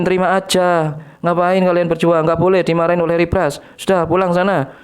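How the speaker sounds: high mocking scold at the Syrians; mock scolding Harry Pras. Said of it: "kalau tahu Harry Pras Anda dimarahin".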